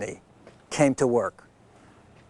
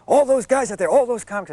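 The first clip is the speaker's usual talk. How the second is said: imitating Rodney; 9 semitones higher, 4 dB louder, faster than usual. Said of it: "He says".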